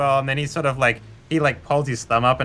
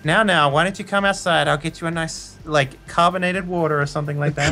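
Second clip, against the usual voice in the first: high, sugary now-now voice; soothing secretary; 6 semitones higher than usual. Acted. Secretary coaxing the customer outside, high and sweet. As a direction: shoo him out sweetly.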